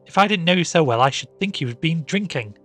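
high, loud disbelief; exasperated scolding. A narrator's reading. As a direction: chide the maid loudly. Mistress scolding the maid.

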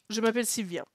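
French with a put-on English accent; mock English accent. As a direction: play an English speaker introducing herself in French. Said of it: "vous allez entendre mon magnifique accent".

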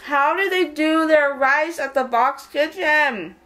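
slow, husky sexy voice. Real, not acted. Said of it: "Mom, you got a sexy voice".

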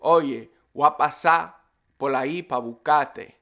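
Dominican accent, "pasar" as pasá; Dominican, "buscarte" as bucate; Dominican Spanish. Shown as a demonstration. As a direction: cut the L and R like a Dominican. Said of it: "you might hear Dominicans say".

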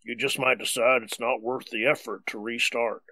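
a light ad-voice read; understated commercial announcer. Pretend. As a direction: read it like an advert pitching a product. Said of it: "It sounds like a commercial".

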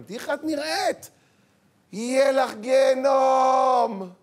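high pitched, drawn-out furious threat; shriek, then roar the threat slowly; angry parental scolding. Acted. Parent to daughter over her outfit, angry shout. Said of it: "למה אנחנו מגיבים ככה".

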